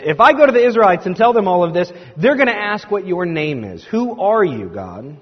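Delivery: high, loud, worried-sounding protest; acted objection. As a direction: argue back at God, pitch jumping up. Acting Moses's second objection to God.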